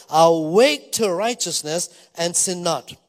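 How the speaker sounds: slow, loud, declaiming the verse; a preacher's ringing pronouncement; emphatic scripture quote. Acted. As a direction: proclaim it slowly, with weight.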